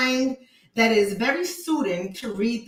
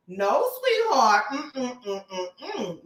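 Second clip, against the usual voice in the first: mock pity; much slower than usual. Mock pitying the commenter.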